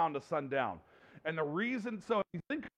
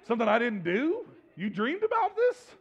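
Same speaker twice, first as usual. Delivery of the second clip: incredulous; 4 semitones higher, 3 dB louder than usual. Retold or imitated. Husband baffled by wife's dream.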